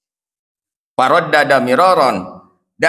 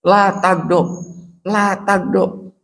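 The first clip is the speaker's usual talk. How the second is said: slow repeated quote; 3 semitones higher, slower than usual. Retold or imitated. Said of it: "Nasehatna teh ngan sakitu we".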